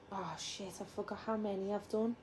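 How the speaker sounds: whisper. Real, not acted. Quiet house, baby asleep.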